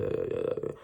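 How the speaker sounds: low stuttered uh sounds; imitated mouth spasm. Showing how the drugged mouth went, imitated garbled uh sounds. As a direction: mimic a mouth moving out of control. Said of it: "My mouth is going like this".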